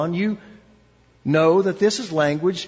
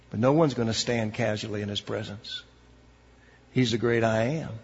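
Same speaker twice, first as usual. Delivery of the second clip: hushed appeal; 3 semitones lower than usual. Acted. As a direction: bring the room down to a hush. Soft closing appeal.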